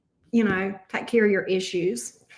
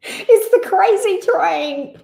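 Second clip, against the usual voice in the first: excited sing-song; 8 semitones higher, 5 dB louder, slower than usual. Real, not acted. Reacting to surprising cards.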